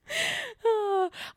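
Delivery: high wheezy sigh after laughter; laughing sigh. Real, not acted. Host recovering from own blunder, high laughing sigh. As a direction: come down from a giggling fit.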